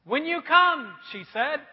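put-on high, laughing little kid; cheeky child talking back.

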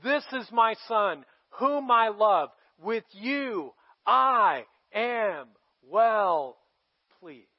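slow, drawn-out solemn heavenly voice; voice of God. Retold or imitated. God speaks over his son, slow and solemn. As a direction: boom it down from heaven, slowly. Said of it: "God's voice looks down and says".

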